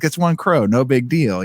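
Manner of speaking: put-on Boston mobster accent. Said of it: "they sound like mobsters in this".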